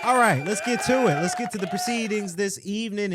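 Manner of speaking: loud, high hyped call; shouting. Real, not acted. Host launching into the show, shouting. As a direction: holler to kick the show off. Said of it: "I was shouting too much in the intro".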